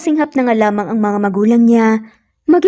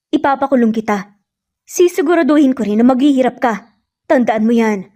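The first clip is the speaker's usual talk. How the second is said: angry shout; 2 semitones higher than usual. Acted. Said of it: "nang sumigaw si Lucas".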